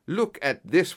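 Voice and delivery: high, loud call for attention; triumphant cry. A narrator's reading. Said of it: "he cried".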